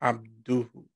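slow, careful syllables for repeating; measured call-and-response Arabic recitation. Shown as a demonstration. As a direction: say it slowly so a learner can repeat. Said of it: "I'm gonna say it slow in Arabic".

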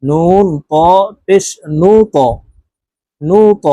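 ত released with an upward echoing push; upward qalqalah bounce. Shown as a demonstration. Teacher drilling qalqalah letters, ত pushed upward with a bounce. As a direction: bounce off the ত after নু. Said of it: "উপরের দিকে ধাবিত করে ধাক্কা দিয়ে উচ্চারণ করতে হবে".

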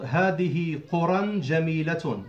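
قرى said "quran" before جميلة; two-fatha -an on قرى; nunated ending. Shown as a demonstration. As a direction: sound the final n of قرى as it links on. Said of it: "two fatha at the end".

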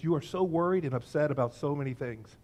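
name their worry kindly. Acted. Jesus speaks to worried Martha, very kindly. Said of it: "he very kindly says".

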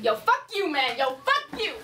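high mock-tough challenge. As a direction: play the tough guy.

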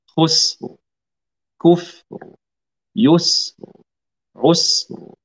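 each word ending in a clearly sounded ر, not bounced; clear final ra. Shown as a demonstration. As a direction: model the ر ending of خسر and كفر lightly. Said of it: "نبرة الراء حتى تظهر".

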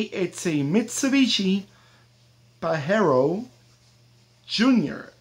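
Spanish accent on the car name. Shown as a demonstration. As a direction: say Mitsubishi Pajero Junior the Spanish way. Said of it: "I said it in the Spanish accent".

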